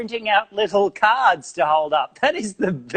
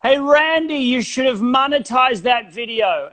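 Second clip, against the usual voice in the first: fan voice; 5 semitones higher than usual. Retold or imitated. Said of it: "I get a lot of".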